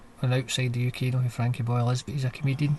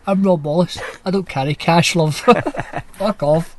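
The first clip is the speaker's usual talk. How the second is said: lightly hammed-up snooty local, a touch louder; mock posh snob; 6 dB louder than usual. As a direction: play a smug man who carries no cash. Mock posh, above it all.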